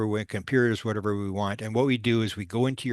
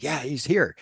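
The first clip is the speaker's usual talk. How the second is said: retold panic; 6 semitones higher than usual. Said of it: "the guy starts freaking out".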